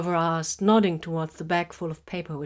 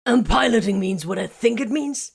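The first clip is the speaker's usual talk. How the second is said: innocent; 5 semitones higher, 6 dB louder than usual. A narrator's reading. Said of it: "he inquired innocently".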